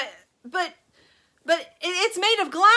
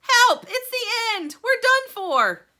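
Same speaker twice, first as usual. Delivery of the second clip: very loud, high cries; terrified shout; 13 dB louder, slower than usual. A narrator's reading. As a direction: scream for help. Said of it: "And Grandpa Joe shouted".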